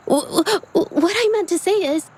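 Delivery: nervous, catch yourself and restart; bashful stammer before admitting feelings; flustered stammer. Acted. Flustered stammer after confession.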